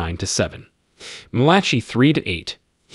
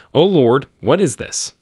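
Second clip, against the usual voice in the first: mildly nervous question, higher pitched; understated unease, voice lifted; 5 semitones higher, 4 dB louder than usual. A narrator's reading. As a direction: read it with a touch of alarm, pitch raised. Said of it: "the person said nervously".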